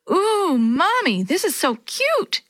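put-on high, slow, gushing little kid; excited little girl. A narrator's reading. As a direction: coo it like a delighted small child. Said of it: "exclaimed Yo-Yo".

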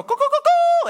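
high squeaky crowing, laughing; mock rooster crow. Preacher imitating the rooster crowing at dawn.

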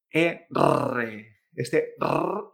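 R rolled hard, Spanish style; R española vibrante. Shown as a demonstration. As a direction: trill the R with a strong tongue vibration. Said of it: "no se pronuncia con esta vibración". (R con vibración fuerte, a la española)

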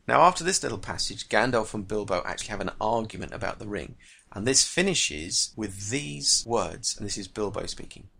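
reading a novel scene with lightly voiced characters; teacher reading a Tolkien extract to the class; story reading. A narrator's reading. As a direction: bring the dialogue to life as you read.

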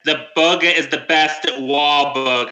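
shaky attempt at a Boston accent, slowing down. Co-host trying and fumbling a Boston accent. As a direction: have a go at Boston vowels. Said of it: "Do a Boston accent".

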